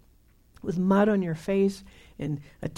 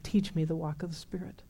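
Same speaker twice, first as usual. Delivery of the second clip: hushed, breathy plea to God; whispered prayer; 3 semitones lower, 6 dB quieter than usual. Retold or imitated. Recalling his young prayer to the Lord, whispered. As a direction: pray it under your breath.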